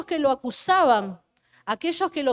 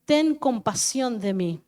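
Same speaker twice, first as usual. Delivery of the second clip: loud pleading call; crying out louder; 4 dB louder than usual. Acted. Beggar shouting louder over the crowd to Jesus. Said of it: "se puso a gritar aún más".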